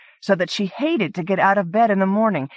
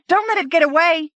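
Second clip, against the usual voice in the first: high, loud and fast urgent shout; yelled; 10 semitones higher, 3 dB louder, faster than usual. Acted. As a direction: keep yelling as she runs after it. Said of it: "Blaine yelled".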